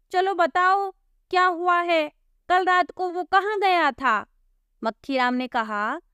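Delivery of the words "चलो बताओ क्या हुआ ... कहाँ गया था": higher, pressing cop questioning; brusque constable interrogating; impatient policeman. Acted. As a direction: hurry them along.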